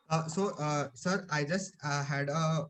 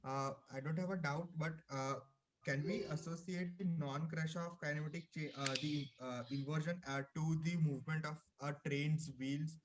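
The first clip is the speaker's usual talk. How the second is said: faint and far from the mic; barely audible; 7 dB quieter than usual. Real, not acted. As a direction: speak softly, barely carrying. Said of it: "Your voice is very low".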